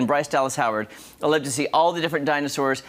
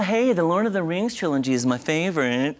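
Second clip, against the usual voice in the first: lightly put-on posh voice; mock-posh reading as someone else; Kira's voice. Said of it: "read this in your voice".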